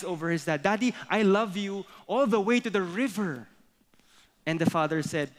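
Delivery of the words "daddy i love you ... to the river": higher little rabbit voice, proudly outdoing dad; clever little rabbit. Acted. Little rabbit trying to top his dad, higher and clever. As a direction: play a child trying to outwit daddy. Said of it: "trying to be clever".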